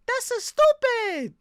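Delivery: very high, drawn-out squeal; high-pitched mock outrage; exasperated squeal. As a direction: squeal it out slowly and loudly. Mock outburst in banter.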